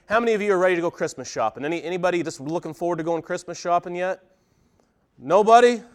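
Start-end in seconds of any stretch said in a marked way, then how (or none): 5.2-5.8 mock surprise. Pastor teases silent congregation.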